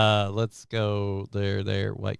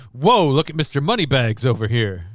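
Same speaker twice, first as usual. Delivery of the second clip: lightly voiced heckling comic; a touch of old-time comedian ribbing; Rodney Dangerfield; 2 semitones higher, 3 dB louder than usual. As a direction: tease like a stand-up comic. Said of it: "Did kinda go Rodney Dangerfield suddenly".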